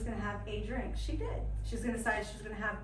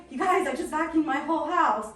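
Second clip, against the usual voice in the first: loud, proud reveal of a small triumph; excited announcement; 5 semitones higher, 10 dB louder than usual. Retold or imitated. Paula telling the group her news, loud and excited. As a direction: announce it like a big win. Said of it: "She's like".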